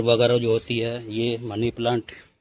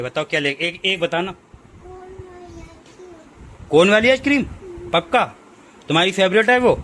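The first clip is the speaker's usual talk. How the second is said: high pet talk; 4 semitones higher than usual. Real, not acted. Owner asking pet which ice cream to bring, high playful baby talk.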